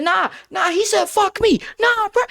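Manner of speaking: high, agitated protest; worked-up imitation of refusing to calm down; getting heated. Student protesting to the art teacher, heated. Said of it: "I'm getting heated".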